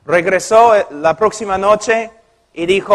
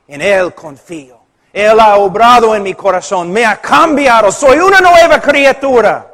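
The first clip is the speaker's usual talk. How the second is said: rising to a joyful testimony; growing confession; 4 dB louder than usual. Retold or imitated. Model answer of true convert.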